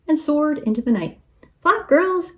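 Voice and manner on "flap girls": high-pitched urgent yell; yelling rooster. A narrator's reading. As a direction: yell a high command to the team. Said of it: "yelled the rooster".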